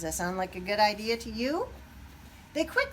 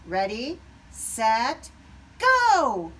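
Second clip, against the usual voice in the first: building from ready to a loud, higher go; shouted start; 3 semitones higher, 9 dB louder, much slower than usual. A narrator's reading. Chicken Pete starting the turkey trot, building shout. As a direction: fire off the race start. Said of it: "Pete shouted".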